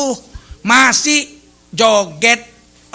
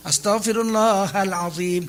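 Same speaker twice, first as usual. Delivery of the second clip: drawn-out plea ending in silly giggles; mock laughing istighfar. Preacher parodies someone giggling through repentance, mock laughing istighfar. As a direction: stretch the plea, then titter crazily. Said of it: "apa ketawa kan".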